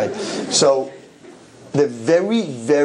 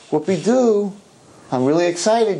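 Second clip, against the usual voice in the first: higher-pitched mock cheer; sarcastic excitement; 6 semitones higher than usual. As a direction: pretend to be thrilled, dismissively. Sarcastic reply to cloning claim.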